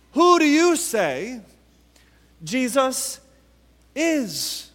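"you" high and strong, with "Jesus" and "is" set apart; stress on YOU. Shown as a demonstration. Preacher presses the question on listeners, stress on YOU. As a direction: push YOU up, then pause before each remaining word. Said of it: "where we want to place our emphasis".

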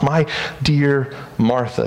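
a loving, gentle rebuke; gentle Jesus. Pretend. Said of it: "he says".

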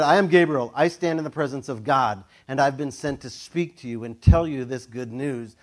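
loud, commanding proclamation; booming angel. Retold or imitated. Gabriel rebuking Zechariah, loud and commanding. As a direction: announce yourself with authority. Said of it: "he said".

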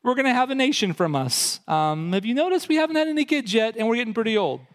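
put-on old Abram laughing at God's promise; laughing disbelief.

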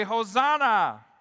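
loud, drawn-out acclamation; retold crowd shout. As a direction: call it out slowly for the congregation to echo. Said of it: "They shouted".

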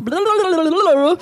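babbled, tongue-rolling mock chatter; mocking imitation of blabbing; blabbing devil. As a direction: blabber nonsense as a little pest. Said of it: "just starts blabbing his mouth".

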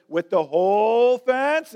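slow, lightly voiced old karate teacher; lightly voiced Mister Miyagi. Old master asking his pupil, slow mock disbelief. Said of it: "And Mister Miyagi says".

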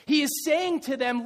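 ordinary delivery

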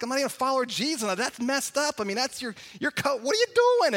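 fast, rising to an outraged high yelp; incredulous protest. Retold or imitated. Single coach scolding married coaches, fast, incredulous, ending high.

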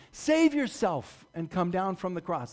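slow, sneering repeat; slow drawn-out taunt. Acted. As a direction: drag the dare out to rub it in. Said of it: "throwing his words back in his face".

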